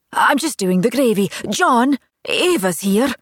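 lightly voiced busy mum; a hint of a chatty mother; mother's voice.

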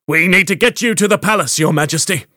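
a captain barking urgency over the chaos; bellowing orders. Acted. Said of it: "bellowing orders to the soldiers".

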